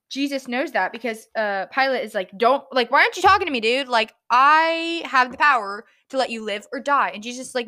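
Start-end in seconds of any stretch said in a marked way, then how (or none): 2.4-7.1 louder, casual retelling of a challenge; mock indignation. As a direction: imitate an exasperated ruler pulling rank. Acts Pilate confronting Jesus.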